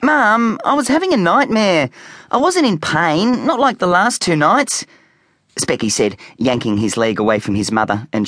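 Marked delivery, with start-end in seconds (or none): 0.0-4.9 put-on boy making excuses. A narrator's reading.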